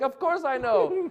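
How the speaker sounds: high, loud, drawn-out false assurance; hammed-up bluff. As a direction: insist loudly that you know, stretching it slowly. Re-enacting his bluff, worked up.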